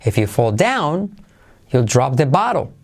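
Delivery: "down" and "bottle" punched in a rhythmic line; swinging intonation peaking on "down" and "bottle"; stress on down, bottle. Shown as a demonstration. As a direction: hit "down" and "bottle". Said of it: "So, down and bottle".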